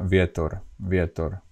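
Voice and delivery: vietor with a mild Slovak V. Shown as a demonstration. Teacher gives a Slovak example, vietor with soft V. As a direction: start vietor with loose lips, between V and W. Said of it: "you just pronounce V".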